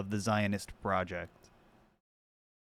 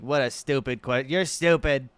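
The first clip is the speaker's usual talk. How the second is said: mock tantrum; 4 semitones higher, 4 dB louder than usual. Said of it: "And he's like".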